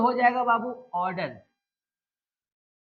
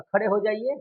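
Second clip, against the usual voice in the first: gentle, courteous asking; polite request. Shown as a demonstration. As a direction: ask it politely. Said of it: "request".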